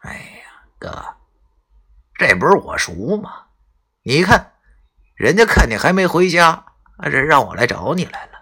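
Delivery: fawning sweet talk from a schemer; overly friendly. Acted. Qiao greets grandpa in the dark woods, fawning and chummy. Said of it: "十分亲热地说道".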